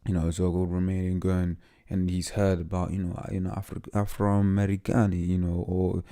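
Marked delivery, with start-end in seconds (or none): 3.5-5.2 put-on light Italian accent. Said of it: "did that in an Italian accent".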